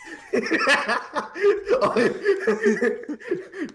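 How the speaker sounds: real high-pitched laugh; delighted cackle; high burst of laughter. Real, not acted. Player cracks up at rat.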